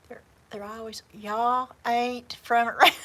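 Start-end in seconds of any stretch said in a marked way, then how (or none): 1.1-2.9 lightly imitated slow Southern drawl. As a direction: tease in a drawn-out Southern drawl, about to laugh. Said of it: "never picked up the drawl".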